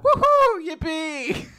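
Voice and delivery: high-pitched cartoon whoop; mock celebration. Recovered hero finding he can move, high gleeful mock cheer. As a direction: whoop it up in a high, silly squeal.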